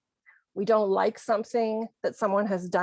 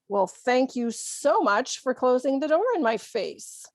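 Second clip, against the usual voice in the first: mock thanks with emphasis on "so much"; sarcastic; 3 semitones higher than usual. Shown as a demonstration. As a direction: show mildly that you're not impressed. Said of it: "this is just sarcasm".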